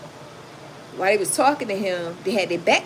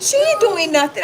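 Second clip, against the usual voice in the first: imitating the cop; 11 semitones higher, 7 dB louder than usual. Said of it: "he said".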